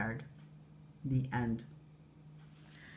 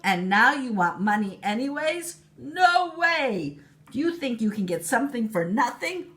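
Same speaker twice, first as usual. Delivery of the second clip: louder, higher indignant scolding; angry queen; 7 semitones higher, 5 dB louder than usual. Acted. Queen scolding Walter, loud angry dismissal. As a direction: drive the boy off.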